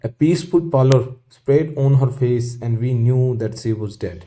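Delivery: very slow, word by word; slow reading. Shown as a demonstration. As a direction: read the line slowly for the class. Teacher reads textbook passage aloud. (धीमे-धीमे पढ़कर सुनाना)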